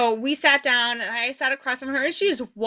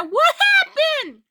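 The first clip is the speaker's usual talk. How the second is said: very high, louder worried question; alarmed grandma; 5 dB louder than usual. Retold or imitated. Grandma seeing the bruise, asking high and alarmed. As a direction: play a startled grandma.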